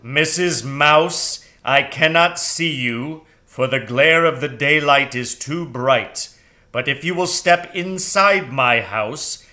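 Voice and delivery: grave owl inviting her in. Acted. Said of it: "said the owl".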